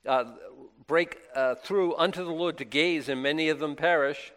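voice of the Lord. Acted. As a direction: command the people sternly as God. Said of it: "the Lord said unto Moses".

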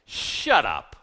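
loud, low command; yelling at a dog. Acted. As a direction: silence a yapping dog. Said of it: "talks to the storm like a dog".

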